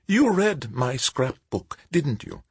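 put-on high, slow frail old woman; a gentle elderly lady, unhurried.

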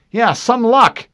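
high, slow sarcastic drawl; bitter sarcasm in a high voice; sarcastic driver. A narrator's reading. Fincher answering Harlan about luck, bitter and sarcastic.

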